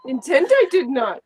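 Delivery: Yoda voice. Retold or imitated. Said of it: "it's like Yoda-esque".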